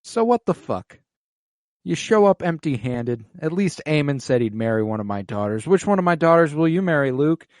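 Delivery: a blustering lord demanding an answer; Boros scoffing. Retold or imitated. Boros berating Luke over marriage, hammed-up bluster. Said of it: "and he's like".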